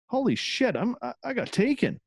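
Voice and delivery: high, startled disbelief; shocked realization. Retold or imitated. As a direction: blurt it out in shock. Realizing he was abducted.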